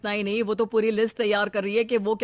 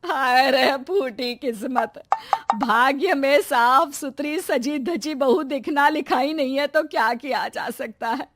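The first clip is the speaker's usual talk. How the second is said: mock lament; 4 semitones higher than usual. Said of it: "सास का रोना".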